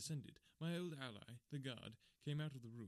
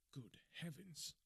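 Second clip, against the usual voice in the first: shocked cry; 5 semitones higher, slower than usual. A narrator's reading. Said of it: "I cried".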